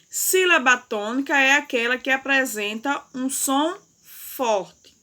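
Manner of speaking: P=A; stressed definition. Shown as a demonstration. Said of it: "Vamos recordar também o que é sílaba tônica".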